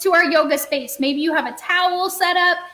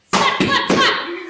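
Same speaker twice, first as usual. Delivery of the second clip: first splat much higher, then settling; higher playful splats; 7 semitones higher, much slower than usual. Acted.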